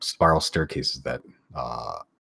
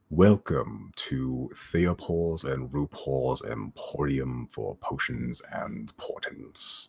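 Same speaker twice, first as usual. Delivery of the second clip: deep, slow, sultry voice; 4 dB quieter than usual. Voicing a shop character welcoming customers, deep and sultry tone. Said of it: "deep and sultry tone".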